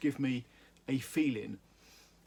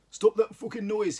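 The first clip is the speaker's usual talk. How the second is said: higher, louder, slow furious order; angry hiss; 7 semitones higher, 6 dB louder than usual. Acted. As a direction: spit it out to silence them. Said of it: "hissed an angry Irish voice".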